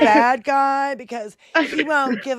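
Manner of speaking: put-on lightly whiny Valley Girl parody; mock Valley Girl. Mocking talk about Zelensky as the bad guy, mock Valley Girl. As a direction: play a ditzy Valley Girl complaining. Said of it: "turned into a Valley Girl when they speak".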